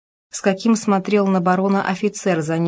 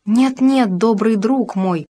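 higher, louder urgent cry, slowing on the end; 3 semitones higher, 3 dB louder, slower than usual. Acted. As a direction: cry out to stop him, pleading. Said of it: "вскричала Клара".

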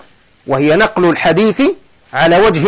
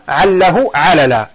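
slow recitation; 4 semitones lower, slower than usual. Shown as a demonstration. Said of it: "ولذا قال".

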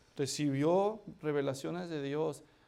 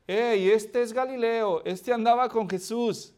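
accusing woman; 5 semitones higher, 6 dB louder than usual. Acted. Woman recognises Peter.

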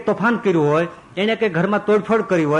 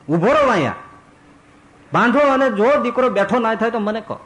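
insistent ascetic; 7 semitones higher than usual. Acted. Ascetic urges thread on father.

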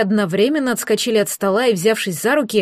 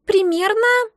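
high creature voice stretching the word; drawn-out, calculating; 11 semitones higher, slower than usual. A narrator's reading. Egg counts its years with the elf, drawn-out. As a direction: draw it out while working out the sum. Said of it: "протянуло существо, подсчитывая".

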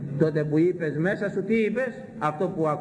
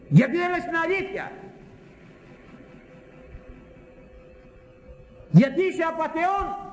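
accusing cry. Acted. Preacher accusing a doctor.

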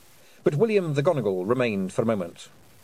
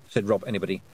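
ordinary delivery, nothing marked

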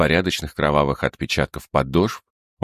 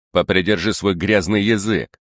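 angry; 4 semitones higher than usual. Acted. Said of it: "гневно приказал судья".

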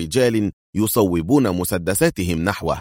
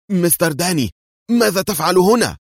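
much higher startled cry; astonished; 11 semitones higher, 3 dB louder than usual. A narrator's reading. Gunman finding Dani tied up, astonished. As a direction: blurt it out in shock. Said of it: "تمتم بدهشة".

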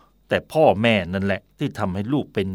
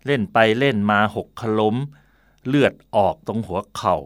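ordinary talk, nothing marked

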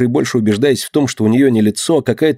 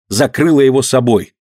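ordinary delivery, nothing marked

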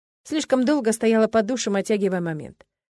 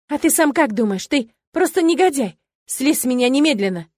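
higher, louder furious outburst; angry shout; 4 semitones higher, 4 dB louder than usual. Acted. Girl screaming at Kai to get off her, furious. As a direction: throw him off you in rage.

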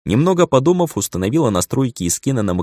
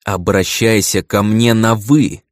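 slow, louder menacing order; 5 dB louder, slower than usual. Acted. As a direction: press each word out threateningly. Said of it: "грозно процедила Киера".

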